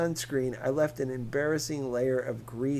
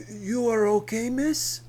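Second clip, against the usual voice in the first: put-on higher, concerned Spanish-accented man; 10 semitones higher, 6 dB louder than usual. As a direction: ask gently in a thick Spanish accent. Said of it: "in a thick Spanish accent".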